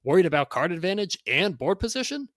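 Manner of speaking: loud, high hyped sales pitch; carnival barker. Acted. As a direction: hawk it like a sideshow barker. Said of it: "read this in sort of a carnival barker type voice".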